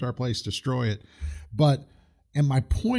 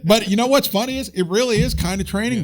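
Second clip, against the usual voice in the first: laughing through the words, higher and louder; real laughter spilling into the sentence; 9 semitones higher, 6 dB louder than usual. Real, not acted. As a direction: still cracking up from the joke. Laughing after Training Day joke.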